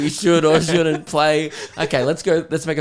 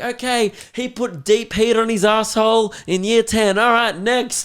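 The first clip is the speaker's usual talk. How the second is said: higher, brisk sales patter; auctioneer patter; 9 semitones higher, 3 dB louder than usual. Retold or imitated. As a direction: rattle it off like a salesman. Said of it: "He's like".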